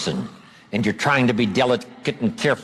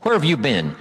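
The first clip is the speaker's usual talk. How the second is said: loaded demo; 2 semitones higher than usual. Shown as a demonstration. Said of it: "See, that's loaded with "you don't care".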